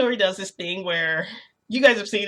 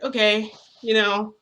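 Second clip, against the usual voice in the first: louder, impatient retort; raised, exasperated reply; kind of irritated; 3 semitones higher, 6 dB louder than usual. Retold or imitated. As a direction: push back, mildly annoyed. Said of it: "I'm kind of irritated".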